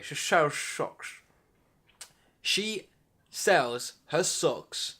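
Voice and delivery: very slow "She sells socks", forcing the s sounds; slowly fighting the tongue twister; careful slow retry. Real, not acted. Retrying the tricky line, careful and slow. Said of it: "The bloody mouth doesn't work".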